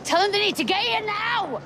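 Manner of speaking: high, desperate demand; frantic shout. Acted. Woman shouting at the caller to hurry the ambulance. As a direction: yell at him to hurry them.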